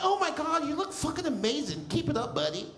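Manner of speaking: mock white admirer, starting high; gushing, chummy caricature of white praise; white person voice. White people greeting him after weight loss, gushing mock compliment. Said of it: "I love white people when they see me".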